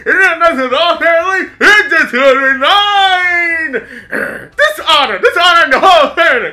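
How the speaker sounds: loud, shouty little dragon; Mushu voice. Pretend. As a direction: bellow it like a pint-sized dragon.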